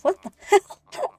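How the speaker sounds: high, amazed outburst; shocked at the voice actor's hometown, blurting out; surprised. Real, not acted. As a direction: blurt it out in disbelief.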